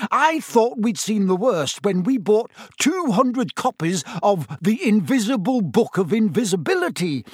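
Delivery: panicked frantic pleading. A narrator's reading. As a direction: babble like a harried shopkeeper. Harassed manager ranting about books.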